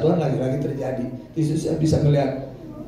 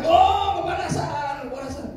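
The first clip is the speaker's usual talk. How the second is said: retold scream; 10 semitones higher than usual. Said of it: "dia berteriak-teriak".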